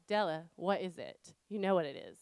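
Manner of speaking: retold mild irritation; exasperated mom. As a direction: push the question back with tired patience. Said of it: "I'm irritated. I'm exasperated".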